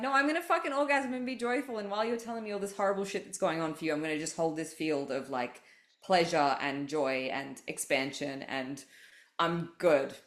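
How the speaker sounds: rising, exuberant proud vow; defiant joy. Retold or imitated. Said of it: "now it's like".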